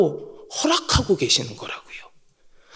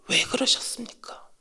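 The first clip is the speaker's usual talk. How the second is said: whispered question; 10 dB quieter than usual. Real, not acted. Whispered plea.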